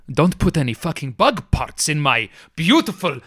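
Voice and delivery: building to a high, furious rant; angry vendor. Acted. Vendor furious at bug parts in his floss, angry rant. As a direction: rant at the thief with rising fury. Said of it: "he's suddenly angry".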